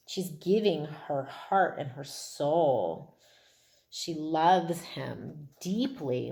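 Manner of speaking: slow, tender telling. Real, not acted. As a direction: linger over the words lovingly. Tender description of love.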